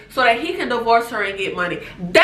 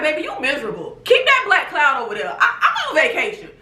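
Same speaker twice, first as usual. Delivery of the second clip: laughing, sassy; mock telling Portia to keep her gloom away; faster than usual. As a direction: tease her through laughter. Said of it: "I would be like".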